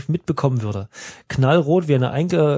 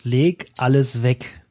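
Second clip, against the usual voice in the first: slow typed command; slower than usual. Shown as a demonstration. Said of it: "wir tippen ein".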